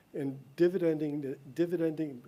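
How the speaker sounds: slight lisp from a mouth retainer. Real, not acted. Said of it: "I have a Invisalign in my mouth and I lisp a little bit".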